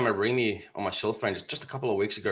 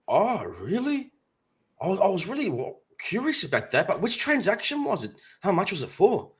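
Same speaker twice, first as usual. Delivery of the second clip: playing dumb; 7 semitones higher than usual. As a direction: play the naive mark, draw him in. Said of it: "And I said to him".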